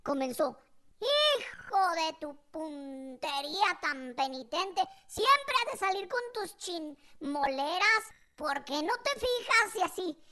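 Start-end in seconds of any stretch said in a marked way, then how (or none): 1.0-9.7 drawn-out, hammed-up scolding; mock cursing mother. Mother scolding her child, mock cursing. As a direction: imitate Mom reeling off curses slowly. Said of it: "toda su colección esa de maldiciones".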